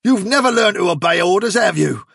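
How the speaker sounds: high-pitched, sustained angry tirade; furious. A narrator's reading. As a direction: rant at him, building to a final warning. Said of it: "turned furiously on Fiver".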